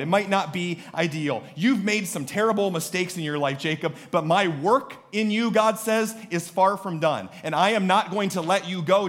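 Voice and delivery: urgent, insistent pulpit delivery; God's plea to Jacob. Acted. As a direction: preach it as God addressing His child. Preaches as God speaking to Jacob.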